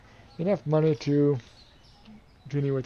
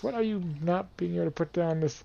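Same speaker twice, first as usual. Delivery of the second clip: ordinary delivery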